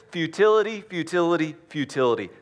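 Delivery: fiery preacher's repeated futility; emphatic repetition. Acted. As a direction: hammer the word home and let it drop. Repeated word shouted, then falling.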